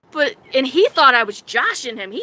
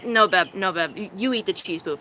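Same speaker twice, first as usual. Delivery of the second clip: retold partner's refusal; 5 semitones lower, 3 dB quieter than usual. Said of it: "And he goes".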